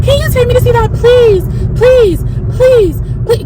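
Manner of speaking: put-on a teen begs her mom for another movie in a high whine; whiny begging teen. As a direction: whine it like a bratty teenager begging.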